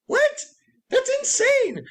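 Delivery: incredulous what; shocked disbelief. Retold or imitated. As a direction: blurt it out, stunned at what you just heard. Shocked reaction to Karen.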